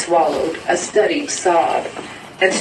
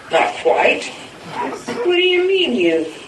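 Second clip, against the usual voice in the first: startled; 13 semitones higher, slower than usual. A narrator's reading. Blind man startled, shivering.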